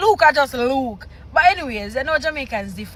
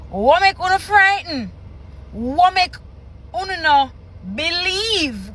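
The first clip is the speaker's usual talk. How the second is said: reading patois scripture; 3 semitones higher than usual. Shown as a demonstration. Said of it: "verse thirty-six say".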